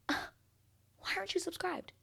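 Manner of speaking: asking viewers why they aren't subscribed, mock high; mock shocked squeak. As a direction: pretend to be appalled, slowly.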